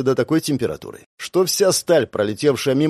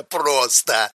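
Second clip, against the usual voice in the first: laughing. Acted. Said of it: "заржал я".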